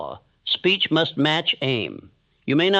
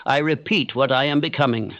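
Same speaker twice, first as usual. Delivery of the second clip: declaration. Shown as a demonstration. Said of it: "Say this now".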